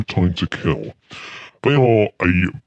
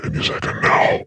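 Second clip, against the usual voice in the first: breathy, hushed whisper, teasing a ghostly guest; spooky whisper. Acted.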